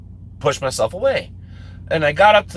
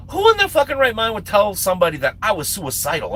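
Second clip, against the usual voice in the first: mildly indignant, pitched a little higher; retold growing anger; 4 semitones higher than usual. Teller reacts to being called suicidal, mildly mad. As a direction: let some indignation into the retelling. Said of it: "now I'm kinda getting mad".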